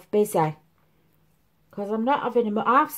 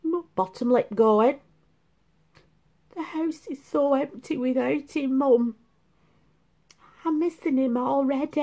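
mock sulking; 5 semitones higher than usual. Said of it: "she was like that".

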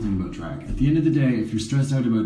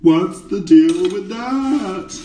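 slow, high, loud mock comedian question; a hammed-up comic asking the crowd; stand-up comic bit; 9 semitones higher, 7 dB louder, much slower than usual. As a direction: ham up a stand-up's opener.

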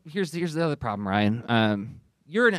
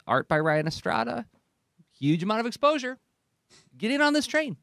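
devil's advocate pitch. Acted. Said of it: "if you wanna play the devil's advocate".

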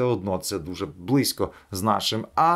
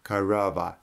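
English accent. Shown as a demonstration. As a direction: say корова the way an English speaker would. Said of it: "слово корова по-англійськи". (корова з англійським акцентом)

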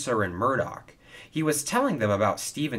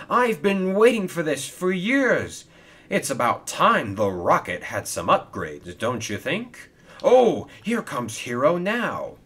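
loud, giddy eagerness with high bursts; excited, jumping high and loud; 7 semitones higher, 5 dB louder than usual. Acted. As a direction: bubble over with long-awaited excitement. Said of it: "was very giddy about his".

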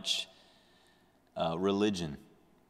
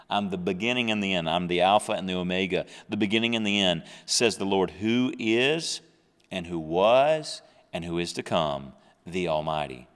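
louder, fast proclaiming read; preaching scripture; 4 dB louder than usual. Acted. Preacher proclaiming Revelation to congregation, louder and fast. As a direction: drive the verse home to the church.

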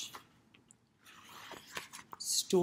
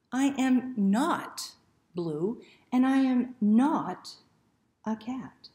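slow and louder, offended; indignant dog; 4 semitones higher, 6 dB louder, slower than usual. Acted. The dog objects to the book, slow and indignant. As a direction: insist it, word by word.

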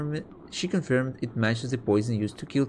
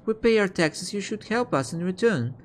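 higher, reproachful peasant voice; indignant peasant; 6 semitones higher than usual. Acted. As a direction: demand help from the king. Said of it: "A peasant".

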